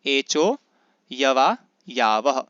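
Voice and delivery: slow, measured एचो, यवा, यावह with long vowels held; chant-like model reading of एचो यवा यावह; sutra recitation. Shown as a demonstration. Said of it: "क्या बोलेंगे इसको". (सूत्र का धीमा, सही उच्चारण)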